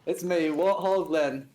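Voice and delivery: slow, proud English warthog intro; warthog Len voice. Acted. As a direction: announce yourself grandly and slowly.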